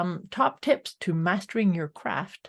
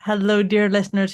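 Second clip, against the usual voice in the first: louder formal phone greeting; telephone voice; 6 dB louder than usual. Pretend. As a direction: announce it like a phone operator. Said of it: "this telephone voice".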